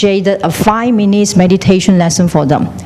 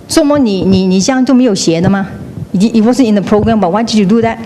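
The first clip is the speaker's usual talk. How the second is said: accusing question; faster than usual. Retold or imitated. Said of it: "I ask you".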